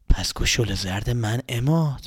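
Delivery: low, slow looming dragon voice; low, slow menacing creature. Acted. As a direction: draw it out like a monster. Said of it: "مثل یه اژدها".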